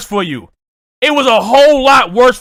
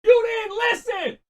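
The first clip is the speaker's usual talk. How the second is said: slow, much higher drawn-out yell; slow shout; 9 semitones higher, slower than usual. Real, not acted. Scolding Drake, a slow high shout. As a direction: stretch the yell out.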